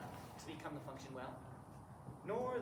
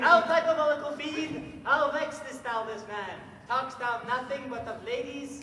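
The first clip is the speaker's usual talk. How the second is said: mock exorcism; 7 semitones higher, 11 dB louder, slower than usual. Fake curate exorcising the prisoner.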